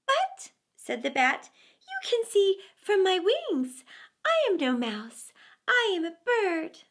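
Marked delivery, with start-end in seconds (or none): 0.1-0.5 high, squeaky pleading bat. A narrator's reading. Bat arguing with the weasel, high and squeaky. 1.8-6.8 high, squeaky pleading bat. A narrator's reading. Bat arguing with the weasel, high and squeaky.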